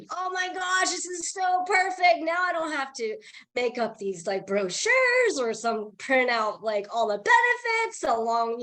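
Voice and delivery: excited inner voice. Retold or imitated. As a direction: act delighted at the perfect solution. Retelling her own excited thought.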